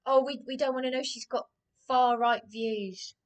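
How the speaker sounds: mocking quote. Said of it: "quoting Lib Dem office".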